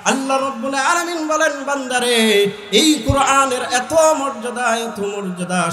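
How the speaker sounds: usual speaking voice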